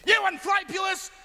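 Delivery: indignant outburst. Acted. Mayor berates a fast-talking salesman.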